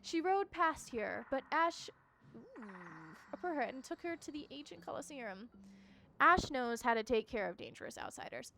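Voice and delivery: lightly voiced wary game character; mildly menacing storyteller delivery; forest creature. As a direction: tell of the captive with emphatic bursts.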